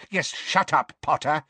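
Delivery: high, sharp order; barked. A narrator's reading. Minister silencing the boy, barking. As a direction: snap it at the boy. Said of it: "barked Fudge".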